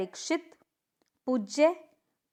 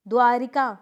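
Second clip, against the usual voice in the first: wrong form called out; 7 dB louder than usual. Shown as a demonstration. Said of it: "द्वारिका नहीं होता है".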